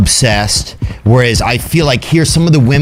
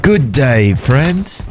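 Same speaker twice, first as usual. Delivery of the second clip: a light put-on English accent, friendly greeting; 2 semitones higher, much slower than usual. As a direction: tip the hat with a mild English accent. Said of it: "What do you do an English one?".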